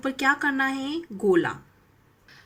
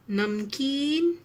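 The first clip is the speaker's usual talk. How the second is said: slow sounding out; 3 semitones higher, much slower than usual. Shown as a demonstration. Teacher sounding out a word.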